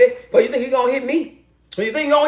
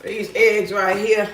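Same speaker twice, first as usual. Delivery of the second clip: lower, unhurried statement; low and slow; 4 semitones lower, slower than usual. Real, not acted. Woman getting eggs out while cooking, low slow remark. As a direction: say it slowly, pitched down. Says it low before singing it.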